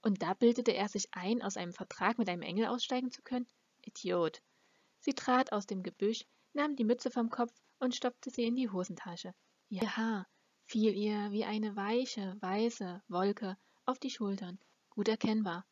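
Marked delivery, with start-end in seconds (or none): none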